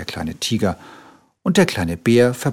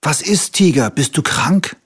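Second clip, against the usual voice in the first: calling out; 6 semitones higher, 3 dB louder than usual. A narrator's reading. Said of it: "und rief".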